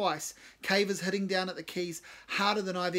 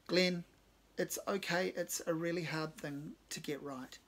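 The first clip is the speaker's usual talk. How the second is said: soft reassuring. Retold or imitated. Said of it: "speaks softly".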